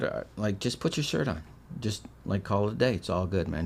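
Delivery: soft, unbothered, easy tone; cool him down gently; calm. Retold or imitated. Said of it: "Just that calm".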